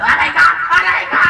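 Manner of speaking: loud, high-pitched "ouch" cries; mock pain yelp. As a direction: yelp as if hair is being yanked. Yelps as hair is pulled. (kunwaring sigaw sa sakit)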